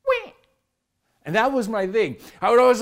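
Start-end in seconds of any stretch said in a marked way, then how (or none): 0.1-0.3 short mocking whimper; a fake little wah like a crybaby; dad mocking a complaining kid with a wah; mock baby cry. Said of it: "I'd say".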